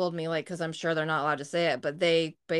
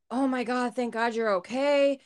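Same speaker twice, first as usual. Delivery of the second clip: retold gush of relief, higher pitched; relieved mother; 6 semitones higher than usual. Chucky's mom relieved to find her okay, retold higher-pitched relief. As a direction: imitate a worried mom's relief, pitched up.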